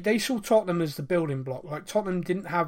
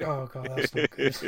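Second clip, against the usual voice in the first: imitated Indian-accented cricket commentary; Indian commentator impression; 3 semitones lower than usual. Fan commentating on The Hundred in his head, mimicked Indian accent. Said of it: "in my head in his voice".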